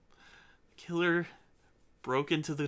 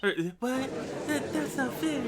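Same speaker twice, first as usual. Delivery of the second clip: higher, indignant defence attorney voice; protesting lawyer; 11 semitones higher, slower than usual. Acted. Defence lawyer protesting to the judge, higher and indignant. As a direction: play the lawyer crying foul.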